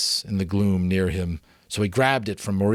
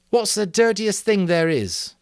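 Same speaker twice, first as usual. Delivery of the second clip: higher, eager question; inspired Simon; 12 semitones higher, 6 dB louder than usual. A narrator's reading. Simon to the assembly, a higher eager question. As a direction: ask it as a breakthrough.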